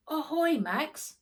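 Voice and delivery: high, loud hail across the jetty; calling out. Acted. Grandpa hails Max from the ship, calling out. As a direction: sing out a greeting from the boat.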